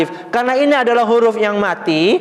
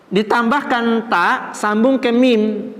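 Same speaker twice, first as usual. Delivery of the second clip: slow dictation; 2 semitones higher, slower than usual. Shown as a demonstration. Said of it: "teacher dictates steps slowly".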